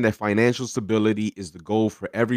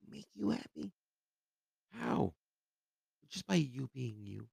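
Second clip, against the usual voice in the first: mocking high voice; 7 semitones higher, 12 dB quieter than usual.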